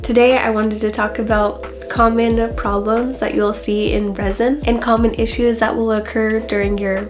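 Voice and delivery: raspy sick voice, hoarse from covid; a hoarse voice, like a heavy smoker's; smoker's rasp. Real, not acted. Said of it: "I sound like I've been smoking nonstop for eighty years".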